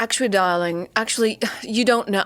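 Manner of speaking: lightly put-on British accent, condescending; a hint of a British know-it-all talking down; mock British mansplainer. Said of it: "I don't know why he's British".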